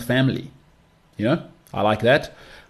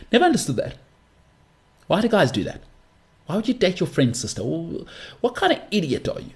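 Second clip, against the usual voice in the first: much higher, exasperated disbelief; high-pitched rant; 7 semitones higher than usual. Real, not acted. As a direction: pitch up in mock outrage at them. Ranting high, mocking guys.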